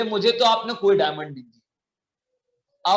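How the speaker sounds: slow, drawn-out lying voice; sly denial. Acted. Keeper lying to the merchant's face, slow and sly. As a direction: lie slowly and deliberately. Keeper flatly denies receiving diamonds.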